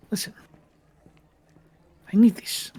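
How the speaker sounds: hushed, desperate whisper; pleading whisper. Acted. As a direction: beg under your breath. Bimbus pleading secretly.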